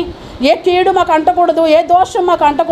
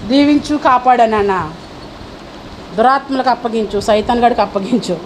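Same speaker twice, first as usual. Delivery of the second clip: low, softer imitation of a spiteful prayer; mock curse prayer; 7 semitones lower, 4 dB quieter than usual. Pastor mimics the congregation's spiteful prayer, low and hushed. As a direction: mimic a believer praying curses on others. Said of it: "మనం చేసే ప్రార్థన వాళ్ళకి అలా వెళ్తుంది".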